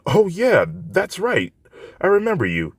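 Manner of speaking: put-on young woman recalling the boy who helped her; Yaoyorozu voice. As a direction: remember him with bright recognition.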